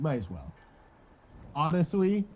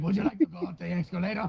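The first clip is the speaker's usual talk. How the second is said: meth head voice; 5 semitones higher, faster than usual. Retold or imitated. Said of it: "some cracked out meth head just like".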